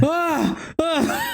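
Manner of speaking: high-pitched imitated "ah, ah"; mock cry. Imitating how people reacted, high mock cries.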